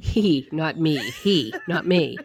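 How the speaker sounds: giggling through the words; laughing. Real, not acted. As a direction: laugh while saying it. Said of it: "Did he clarify".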